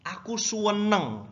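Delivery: "senang" slow and high as "suenang"; U inserted. Shown as a demonstration. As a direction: stretch a U into "senang" to mean very happy. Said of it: "show that you're very happy".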